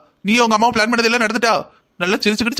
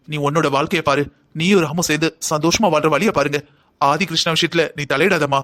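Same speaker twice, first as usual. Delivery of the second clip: gentle advice; 3 semitones lower than usual. Acted. Elder gently advising Meena.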